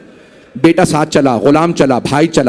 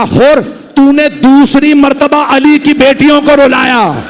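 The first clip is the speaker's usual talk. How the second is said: self-reproaching lament; 5 semitones higher than usual. A narrator's reading. Warrior beats his head, reproaching himself.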